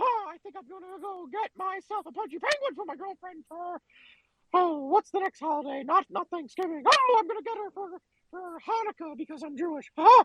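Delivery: squeaky-pitched cartoon character voice. Answering a request to come in with an impression: Mickey Mouse voice. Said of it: "you mean like this?".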